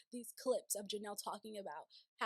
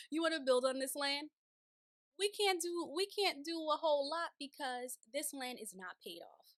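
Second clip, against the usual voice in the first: louder, higher-pitched mock protest; incredulous objection; 3 semitones higher, 4 dB louder than usual. Cody objecting to building on unpaid land, incredulous. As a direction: push back in acted disbelief.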